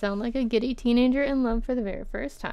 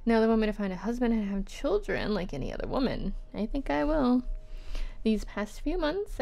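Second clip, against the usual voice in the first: measured, expressive reading; letter read-aloud. Acted. Writer answering Anne months later, lightly performed letter reading.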